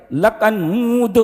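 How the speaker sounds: drawn-out mock recitation; mock imam dragging the vowel; imitating bad reciter. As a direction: stretch لکنود out slowly, mimicking a poor reciter. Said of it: "قرآن بہت خراب پڑھتے تھے".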